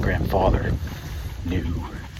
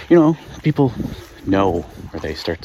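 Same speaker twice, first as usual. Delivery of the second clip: slightly out of breath walking. Real, not acted. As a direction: talk while short of breath. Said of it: "I'm a little out of breath while I'm walking".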